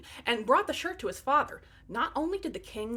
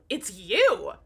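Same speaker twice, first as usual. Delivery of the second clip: yelling; 3 semitones lower, 6 dB louder than usual. Acted. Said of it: "she yelled".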